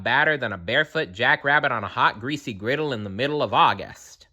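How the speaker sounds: rattled off fast, ending in a whisper; fast aside. Real, not acted. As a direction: rush it out, dropping to a whisper. Narrator's fast comic aside.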